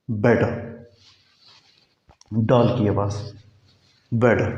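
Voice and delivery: बेटर with the t softened to d; American better. Shown as a demonstration. Teacher showing American better. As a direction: say बेटर as bedder.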